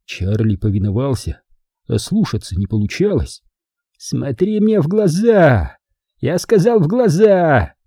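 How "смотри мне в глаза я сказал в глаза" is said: slow, menacing villain hiss; sinister hiss. Acted. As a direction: hiss the order slowly. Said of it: "зловеще прошипел Манфред".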